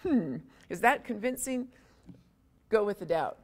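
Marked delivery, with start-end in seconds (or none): 0.0-1.7 doubting musing. Pretend. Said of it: "that moment of thinking".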